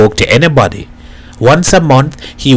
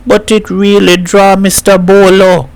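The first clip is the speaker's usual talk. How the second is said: insistent; 8 semitones higher than usual. A narrator's reading. Boy insists to angry Bolo.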